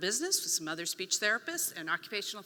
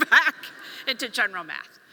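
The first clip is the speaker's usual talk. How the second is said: laughing; 7 dB louder than usual. Real, not acted. Mocking with laughter.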